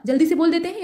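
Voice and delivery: ordinary talk, nothing marked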